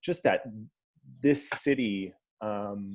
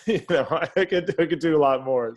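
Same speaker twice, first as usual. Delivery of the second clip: laughing; 5 semitones higher, 5 dB louder than usual. Real, not acted. Laughs at his own list.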